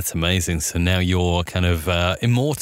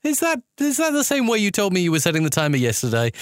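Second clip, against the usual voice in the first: suspicious question; 9 semitones higher than usual. Retold or imitated. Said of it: "And I'm like".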